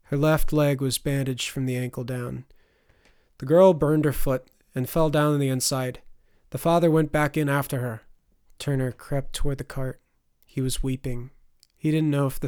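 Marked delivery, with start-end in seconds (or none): 3.4-8.0 doctor voice. Acted. Doctor explains the burns.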